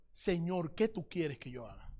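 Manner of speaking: low, hushed, lightly acted awe; fearful submission. Trembling Saul surrenders to the Lord, hushed fearful submission. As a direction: drop to a soft, humbled murmur. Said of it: "temblando y temeroso, dijo".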